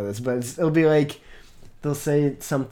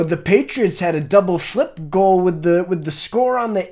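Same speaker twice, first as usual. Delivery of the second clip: a touch louder jock sports talk; mock sports fan; 7 semitones higher, 8 dB louder than usual. Friend mimics a sports fan rambling, a touch louder. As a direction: rattle off fake sports jargon. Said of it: "it'll be like".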